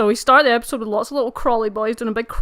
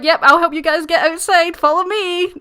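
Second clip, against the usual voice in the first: perky voice; 6 semitones higher, 8 dB louder than usual. Retold or imitated. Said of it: "Emerald's like".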